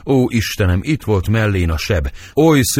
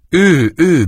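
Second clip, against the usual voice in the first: anguished outcry; 8 semitones higher, 5 dB louder than usual. Acted. Nurse confirms the killing.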